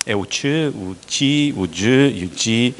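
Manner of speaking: sounds che, ti, je and ji spelled out slowly and clearly as in Brazilian Portuguese, with the je drawn out; naming Brazilian sounds in a light Portuguese accent. Shown as a demonstration. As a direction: demonstrate the Brazilian palatal sounds che, ti, je, ji one by one. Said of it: "O truque para falar ... o português do Brasil".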